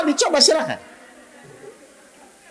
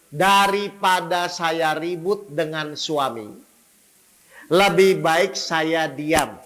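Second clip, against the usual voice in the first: quoted congregant; 3 semitones lower, much slower than usual. Retold or imitated. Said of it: "Ada jamaah saya bilang".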